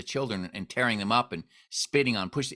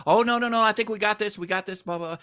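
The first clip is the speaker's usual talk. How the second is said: panicked; 10 semitones higher than usual. Retold or imitated. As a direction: hurriedly wave it off. Panicked refusal of mob offer.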